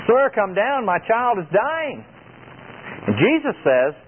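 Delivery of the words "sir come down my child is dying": higher, slow plea of a desperate father; desperate pleading father. Acted. Nobleman begging Jesus to come heal his son, desperate pleading. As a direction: beg as if your child is dying. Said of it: "the man in desperation pleads again".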